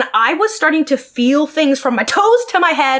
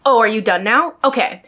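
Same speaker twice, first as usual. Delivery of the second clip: imitating a huffy retort; mock a mildly miffed therapist; 2 semitones lower than usual. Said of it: "she would get huffy and be like".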